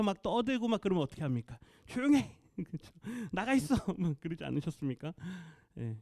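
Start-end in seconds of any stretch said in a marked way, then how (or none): 1.9-2.4 mock shushing shout. Church adult to noisy running children, mock shushing shout. 3.3-3.7 mock scolding order. Imitates adults sending children out.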